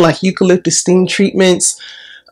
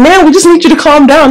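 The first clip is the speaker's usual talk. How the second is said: higher, louder imitation of staff; mock nurse; 10 semitones higher, 5 dB louder than usual. Quoting the hospital staff, raised and a bit louder. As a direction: lightly mimic the nurse telling her to calm down. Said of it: "And they're like".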